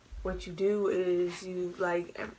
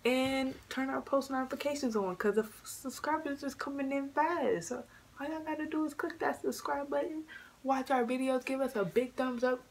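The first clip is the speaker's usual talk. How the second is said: youtuber outro pitch; 6 semitones higher than usual. Acted. Youtuber outro call to action.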